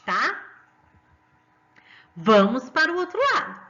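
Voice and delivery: ordinary delivery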